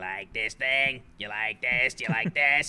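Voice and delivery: put-on voice of a hag. Retelling a story, acting out the trolley hag talking, imitating the trolley hag. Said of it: "when she started talking like this".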